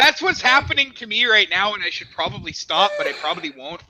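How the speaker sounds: exaggerated Canadian accent sliding towards Indian; Canadian turning Indian. Streamer admits the Canadian bit is slipping, Canadian-Indian accent. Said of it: "you start to sound kind of Indian".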